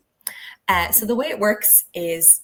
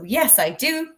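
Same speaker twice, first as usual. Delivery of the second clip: fake confidence; 5 semitones higher, slower than usual. Shown as a demonstration. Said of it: "fake confidence".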